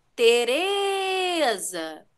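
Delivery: long, lingering, stressed re in Tereza. Calling a name to show a class the stressed syllable: stretch and stress re in tereza. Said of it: "quando eu chamo o nome Tereza ... qual é a sílaba que eu mais demorei a pronunciar? ... Foi o re".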